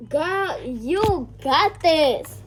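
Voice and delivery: put-on high, loud squealing kids cheering; rowdy classmates. Imitating the whole class, squealing loud and high. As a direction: ham up a wild class yelling and whooping. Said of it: "That's how the whole class sounded".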